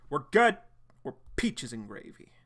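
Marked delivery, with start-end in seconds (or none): 0.1-0.6 excited. Real, not acted. Host hyping start.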